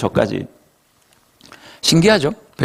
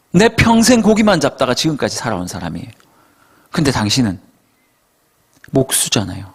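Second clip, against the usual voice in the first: acted-out indignant expert, mildly annoyed; a touch of wounded pride; irritated protest; 3 semitones higher than usual. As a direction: grumble as a put-upon professional. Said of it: "짜증이 극치였어요".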